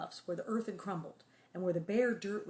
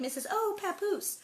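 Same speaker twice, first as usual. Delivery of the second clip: put-on silly kid reading; 11 semitones higher than usual. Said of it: "we, like".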